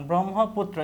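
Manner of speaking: ব্রহ্মপুত্র said carefully, final ত্র sounded as "tro"; correct pronunciation. Shown as a demonstration. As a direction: model the word ব্রহ্মপুত্র, ending on a clear o. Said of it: "সঠিক উচ্চারণ".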